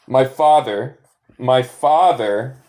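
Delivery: slow teaching prompt. Shown as a demonstration. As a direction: drag out "my father" as a prompt. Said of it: "Si yo quiero decir".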